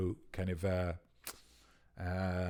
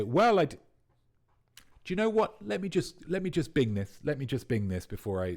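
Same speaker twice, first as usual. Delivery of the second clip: cautious; 6 semitones higher than usual. Pretend. Mock cautious reply, high voice.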